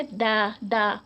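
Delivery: دا with lips opened wide, a clear open a; open-lipped da. Shown as a demonstration. Teacher shows children the open-lipped دا sound. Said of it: "lips کو تھوڑا سا wide open کرتے".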